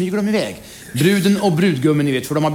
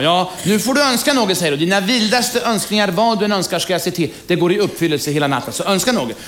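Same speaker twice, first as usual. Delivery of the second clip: higher, inviting bride; a lightly raised, coaxing bride voice; bride's voice; 4 semitones higher than usual. Acted. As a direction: offer him every wish, coaxing.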